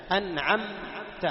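slow recited "أنعمت" with clear nun and mim; "أنعمت" drawn out slowly, both nasal letters pronounced distinctly; clear-letter demonstration. Shown as a demonstration. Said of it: "هنا الشاهد الثاني".

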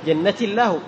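جنتي runs into الله as "jannati-llah"; no "ya" sound between جنتي and الله; ya left out. Shown as a demonstration. Teacher tries a join then rejects it, ya left out. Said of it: "لا، هنا يا إضافة".

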